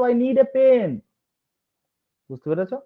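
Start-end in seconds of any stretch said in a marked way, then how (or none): 0.0-0.9 higher voice, "pen" drawn out and falling; stress on pen. Shown as a demonstration. Teacher modelling an insistent request, "pen" stressed. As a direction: land hard on "pen". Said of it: "তখন আমি বলবো".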